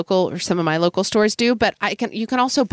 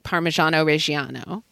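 full-on Italian; 2 semitones lower than usual. Acted. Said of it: "go full on Italiano and be like".

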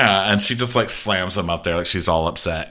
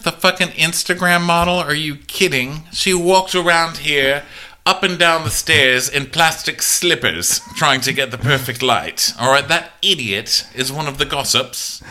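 exasperated rant; 6 semitones higher than usual. Retold or imitated. Alicent outraged at Talia.

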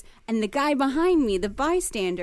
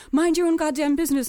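louder, higher mock-angry comeback; angry retort; 5 semitones higher, 6 dB louder than usual. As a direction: warn off a meddler, imitating him. Crackhead snaps back, retold.

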